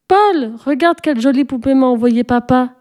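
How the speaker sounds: lightly voiced girl, proud and excited; excited exclamation. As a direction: cry out with pride to her cousin. S'écria Sophie.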